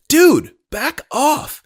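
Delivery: high, loud, slow scared yell; panicked shout. Acted. Ted facing the knife, panicked shout. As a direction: cry out in fear.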